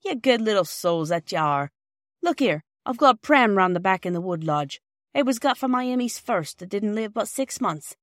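a hint of a motherly old woman offering a gift; kind old lady. Mrs Ransom offers the pram.

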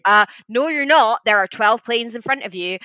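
a hint of exasperated air traffic controller; New York controller. Controller argues with French pilot, mildly mock-exasperated. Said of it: "they just have these huge fights".

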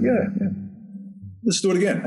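eager director. Retold or imitated. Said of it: "He's like".

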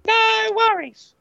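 laid-back mock Australian, slow; a lightly put-on Aussie "no worries"; Australian accent. Host showing off his Australian accent to a guest. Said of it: "That was me trying to do an Australian accent".

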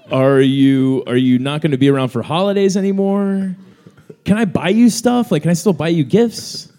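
high, loud anxious mother voice; worried mom. Retold or imitated. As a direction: fret like a mom who fears her son is depressed. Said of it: "And she's like".

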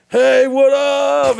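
high, loud, stretched-out hello; mock chipper greeting. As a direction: feign being wide awake and thrilled. Faking alertness when woken by call.

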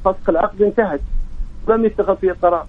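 ordinary talk, nothing marked

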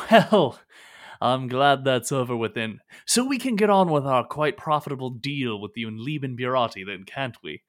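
loud, brisk, satisfied business talk; hearty merchant. Acted. Merchant turning to the profitable deal, hearty and loud. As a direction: clap hands and get back to the deal.

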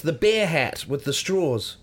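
New Zealand "bear hat" for beer hat; New Zealand accent. Real, not acted. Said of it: "do you mean beer hat".

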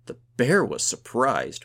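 loud, high, stretched-out glee; whooping. A narrator's reading. Gunhild crows over her friend's victory, whooping. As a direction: whoop it with delight, drawing it out. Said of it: "whooped Gunhild".

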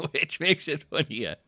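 slow, high words squeezed through laughter; laughing. Real, not acted. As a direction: talk while cracking up. Talking through own laughter.

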